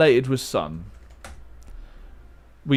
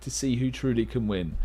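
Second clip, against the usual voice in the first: StarCraft commentator. Pretend. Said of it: "I've turned into a StarCraft commentator".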